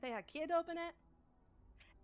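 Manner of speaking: lightly put-on character voice recapping the adventure. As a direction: recount the quest in character, lilting. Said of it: "easier if I was talking like me".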